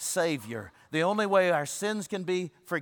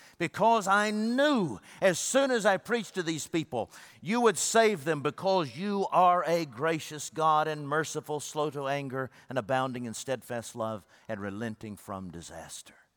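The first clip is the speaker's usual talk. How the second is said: ordinary delivery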